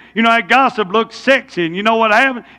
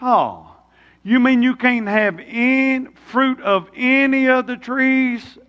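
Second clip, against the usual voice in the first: Satan's twisting question; 2 semitones higher, slower than usual. Retold or imitated. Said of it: "how Satan says it".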